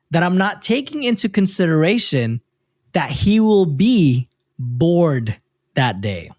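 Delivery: slow, deliberate build to the reveal; spaced-out words for maximum reaction; reading for reaction. A narrator's reading. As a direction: read it out, drawing out the punchline. Rereads the line for reaction.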